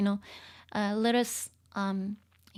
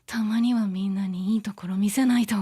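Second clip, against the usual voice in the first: acted anime character; 4 dB louder, much faster than usual. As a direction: read the line as a determined character. Reads another character's line aloud.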